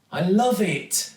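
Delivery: high, bright little cry of delight; excited. A narrator's reading. Zoe admiring the painted van, excited. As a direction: gush with joy. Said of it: "jumping up and down with excitement".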